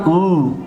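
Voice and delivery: "او" as German ü, a tight rounded long vowel; German umlaut "او", held as one vowel; umlaut sound demo. Shown as a demonstration. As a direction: sound out "او" with pursed lips as ü. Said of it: "و این را هم او".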